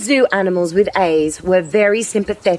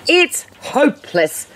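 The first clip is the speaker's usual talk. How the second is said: glum; 7 semitones higher than usual. A narrator's reading. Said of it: "waddling glumly".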